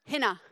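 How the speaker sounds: "hina" said HIN-uh, stress first; pronunciation demo. Shown as a demonstration. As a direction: say "hina" as two syllables, HIN-uh. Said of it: "It's pronounced".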